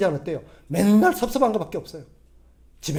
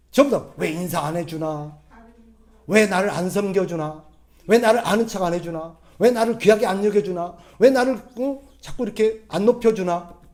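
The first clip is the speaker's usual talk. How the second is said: mock resentful grumble; 3 dB louder than usual. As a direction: imitate a sulky churchgoer's grievances. Grumbling churchgoers' complaints. (대접 못 받아 섭섭한 성도의 불평)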